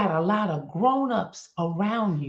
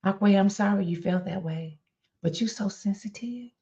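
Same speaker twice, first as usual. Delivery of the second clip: dismissive apology; 5 dB quieter than usual. Shown as a demonstration.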